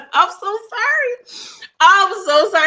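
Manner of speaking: real laughing sorry to the chat; laughing apology. Real, not acted. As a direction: giggle through the apology. Laughing apology after teasing viewer.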